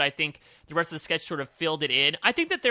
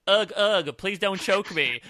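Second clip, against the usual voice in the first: imitating choking victim; 4 semitones higher, slower than usual. Podcast host imitates actress being choked in a sketch, mock strangled plea. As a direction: play at being choked, hammed-up. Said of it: "try to choke her while she's going".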